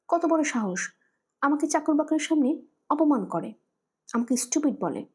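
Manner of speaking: wife fuming to her daughter about her husband; indignant fury. Acted. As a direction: spit out the insult you suffered.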